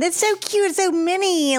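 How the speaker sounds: high-pitched delight over something tiny; gush, pitch jumping way up; squeal-like cooing over cuteness; excited gushing. Real, not acted. Gushing over the little canned drink.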